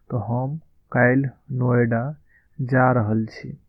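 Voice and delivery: slow, careful Maithili model line; slow model phrase. Shown as a demonstration. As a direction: say it slowly, like a teacher modelling. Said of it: "इसे हम मैथिली में बोलेंगे".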